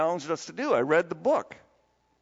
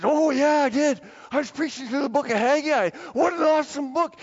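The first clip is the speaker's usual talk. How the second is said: much higher, louder, excited imitation; fired up; 8 semitones higher, 3 dB louder than usual. Imitating Matt thrilled about preaching Haggai, fired up. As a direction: imitate a friend gushing over a book. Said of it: "And he got all fired up and excited".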